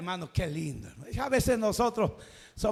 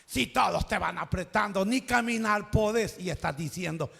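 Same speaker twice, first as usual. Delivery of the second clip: ironic disciples; 3 semitones lower than usual. Acted. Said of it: "con ironía se lo estaban diciendo".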